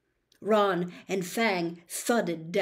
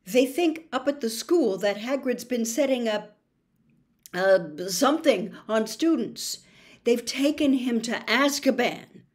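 forced calm; 3 semitones higher, 3 dB louder than usual. Acted. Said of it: "as calmly as he could".

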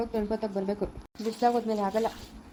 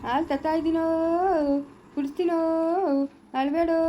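put-on higher, lilting hush for a crying baby; sing-song baby coaxing; 5 semitones higher than usual. Mother coaxing her crying baby with milk, higher sing-song coo. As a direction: coo to calm the little one.

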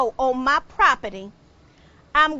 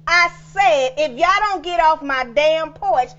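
angry yell. Acted. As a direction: run them off the porch. Yelling at counselors.

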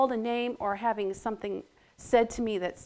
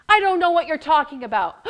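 denying; 5 semitones higher, 9 dB louder, faster than usual. Acted. Peter denies Jesus.

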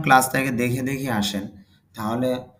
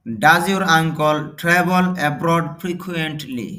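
very slow, louder, every word spelled out; slow model reading; 2 semitones higher, 3 dB louder, much slower than usual. Shown as a demonstration. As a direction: dictate it word by word for learners. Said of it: "teacher models English sentence slowly". (ধীরে ধীরে জোরে পড়া)

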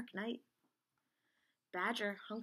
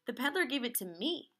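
insistent retort; 5 semitones higher, 5 dB louder than usual. Acted. Animals quarrel over the yarn.

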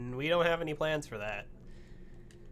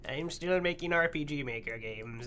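put-on slow, grumpy old granny; mean granny voice. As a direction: drag it out like a cranky grandma. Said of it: "I'm like a mean granny".

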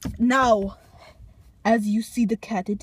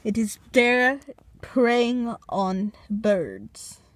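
nature documentary; much slower than usual. Pretend. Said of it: "documentary of the wild Walmart cat".

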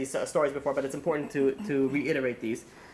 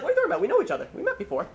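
mock indignant surprise; 12 semitones higher, much faster than usual. Beggar protesting to the rich man, high hammed-up indignation. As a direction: act wronged and astonished.

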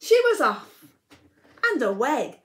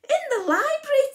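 1 Peter voice; 14 semitones higher, 3 dB louder, faster than usual. Acted. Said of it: "And Peter replied".

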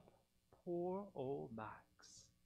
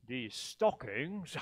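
grinchy sneer; 3 semitones lower, 5 dB louder than usual. Acted. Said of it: "he grinched".

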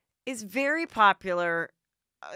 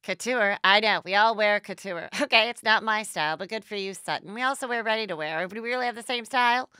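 catty under-breath aside; 3 semitones higher, 4 dB louder than usual. Retold or imitated. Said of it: "under her breath is like".

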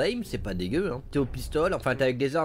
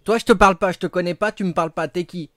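loud, higher mock telling-off; mock angry shout; 6 semitones higher, 12 dB louder than usual. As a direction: snap at the voicemail, playfully. Scolds a voicemail greeting.

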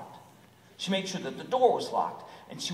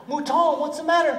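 cat voice; 13 semitones higher, 10 dB louder than usual. Acted. Cat asks the sheep.

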